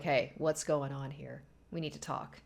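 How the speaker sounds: lightly voiced stern talk, low and slow; stern confrontation. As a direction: play the husband calling her out, low and slow.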